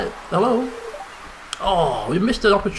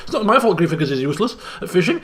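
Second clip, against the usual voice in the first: laughing; much faster than usual. Real, not acted. Blaming his character, laughing.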